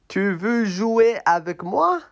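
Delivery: a small friend begging to play; high puppet voice. Acted. Puppet asks the tired elephant to play, in a high voice.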